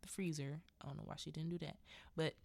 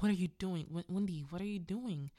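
louder, urgent acted question; alarmed protest; 2 semitones higher, 5 dB louder, faster than usual. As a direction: imitate a dazed man calling out in alarm. Locked-in husband protests.

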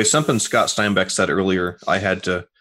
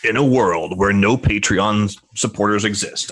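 slow, dramatic trailer narrator; lightly voiced epic movie announcer. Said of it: "like, movie guy trailer voice".

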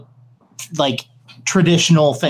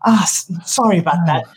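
Doctor Ravna. Acted. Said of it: "Doctor Ravna walks up and goes".

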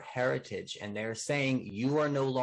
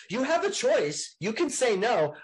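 mock abuser voice; 11 semitones higher, 5 dB louder than usual. Voicing abuser in relationship analogy.

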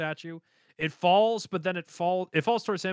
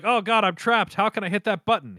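higher, exaggerated frantic plea; mock panic; 5 semitones higher, 3 dB louder than usual. Joseph trapped by the escalator, mock panic. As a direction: play trapped and hammed-up desperate.

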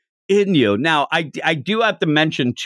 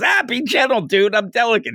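mock delicate plea; 8 semitones higher than usual. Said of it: "He's yelling at him".

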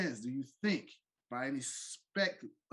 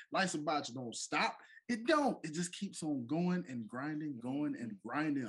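podcast host hype; 3 semitones higher than usual. Acted. Podcast host show segment.

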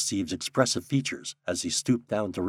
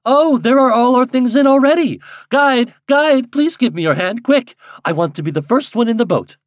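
high, loud, excited calls; eager, breathless-with-haste exclamation; calling out; 13 semitones higher, 10 dB louder than usual. A narrator's reading. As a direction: shout gaily to the guide from the plank. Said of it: "calling out".

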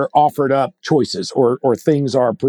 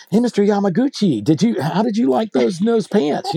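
automated voice; 5 semitones higher than usual. Retold or imitated. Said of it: "automated voice like".

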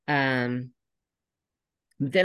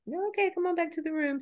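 mock brisk ending; 13 semitones higher, 4 dB quieter, faster than usual. Mocking an abrupt session ending.

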